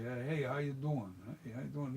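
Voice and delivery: casual Philly street greeting; Philly accent. Shown as a demonstration. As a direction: toss it off like a Philadelphia local. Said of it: "That's a Philly".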